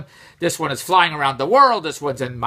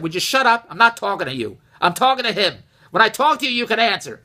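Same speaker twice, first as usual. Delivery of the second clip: lightly voiced bossy Italian husband telling his wife off; a hint of a blunt husband cutting his wife off; 2 semitones higher than usual. A hint of a blunt Italian husband telling his wife to shut up. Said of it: "An Italian husband would talk like that".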